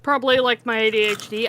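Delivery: ordinary talk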